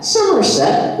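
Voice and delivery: high, slow mock Somerset accent on "Somerset". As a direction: imitate Somerset being said back in a put-on West Country accent. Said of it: "always in that accent".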